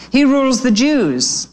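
a lightly voiced know-it-all sparrow; proud young sparrow. A narrator's reading. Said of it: "answered Harrow".

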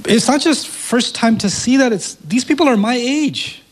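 high, excited disbelief; amazed. Real, not acted. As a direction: voice lifting with real wonder. Amazed retelling, pitch up.

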